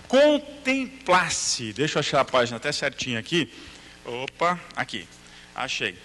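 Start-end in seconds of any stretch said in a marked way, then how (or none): 0.1-1.7 contemplasse drawn out very slowly and high; stress on contemplasse. Shown as a demonstration. Teacher reading from the book, lingering on contemplasse. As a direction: stretch out contemplasse to give it weight. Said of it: "Ele diz contemplar".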